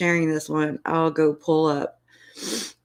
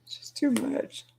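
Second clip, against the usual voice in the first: tearful; 5 semitones higher than usual. Real, not acted. Voice breaking, later crying.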